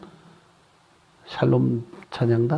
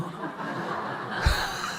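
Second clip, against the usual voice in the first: soft breathy laugh; 12 dB quieter than usual. Real, not acted. Laughing at own joke.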